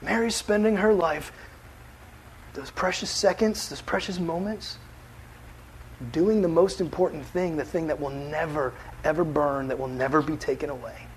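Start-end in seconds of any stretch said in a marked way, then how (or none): 2.5-11.1 hushed emphasis. Real, not acted.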